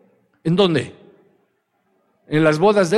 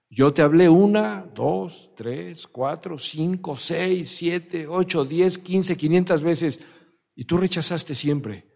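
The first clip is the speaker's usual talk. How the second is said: stern God, fading; 4 dB quieter, slower than usual. Retold or imitated. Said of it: "Dios les va a recordar".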